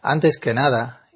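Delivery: normal talking voice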